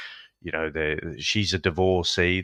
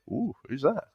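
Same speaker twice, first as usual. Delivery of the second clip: mock leering ooh; 6 semitones higher, 6 dB quieter than usual. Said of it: "as if to say".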